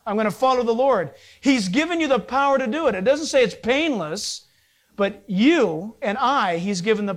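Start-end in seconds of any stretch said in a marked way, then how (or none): 0.0-1.1 a determined declaration, each line pressed home; firm resolve. Pretend. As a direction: say it like a vow you mean. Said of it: "Stand firm in Christ and say".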